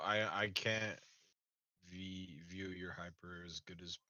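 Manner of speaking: tripping over the words; stammering, thrown by own echo; stuttering. Real, not acted. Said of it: "I'm, like, stuttering because I hear myself".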